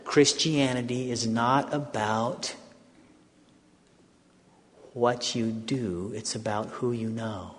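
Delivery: hushed slow discovery; slow realization. Retold or imitated. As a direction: say it slowly as if just discovering it. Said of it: "I think I'm catching something".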